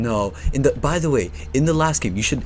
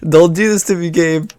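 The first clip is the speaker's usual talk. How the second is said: loud plea; 6 semitones higher, 7 dB louder than usual. Real, not acted. Pleading with the game.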